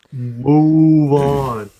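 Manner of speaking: loud, firm move along; impatient. Real, not acted. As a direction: push past it impatiently. Urging past racy text.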